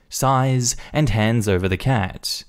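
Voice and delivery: ordinary delivery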